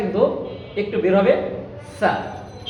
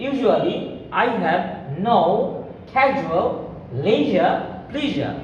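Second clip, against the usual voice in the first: very slow, careful zh sounds; slow drill sentence; much slower than usual. Shown as a demonstration. Teacher drilling the sentence, slow. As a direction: draw out casual leisure pleasure. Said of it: "আমাদের speaking better হবে".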